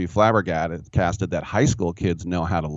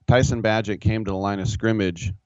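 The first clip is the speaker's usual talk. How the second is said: normal talking voice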